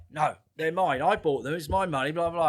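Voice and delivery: hammed-up kid defending his sweets; boy refusing to hand over sweets, mock whiny.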